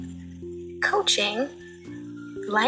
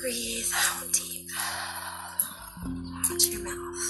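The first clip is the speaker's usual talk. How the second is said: guided meditation. Acted. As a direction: guide them gently into relaxation.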